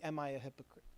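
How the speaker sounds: soft, low, searching question; sincere self-questioning. Acted. Person asking themselves about hypocrisy, quiet sincerity. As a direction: ask it quietly, as if to yourself. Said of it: "honestly and sincerely".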